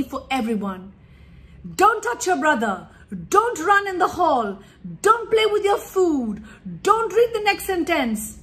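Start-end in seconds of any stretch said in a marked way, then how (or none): 1.8-2.9 firm louder nagging order; scolding command. Shown as a demonstration. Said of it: "this is how we talk to our children". 3.3-8.4 rising, louder string of don'ts; scolding commands. Shown as a demonstration. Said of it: "this is how we talk to our children".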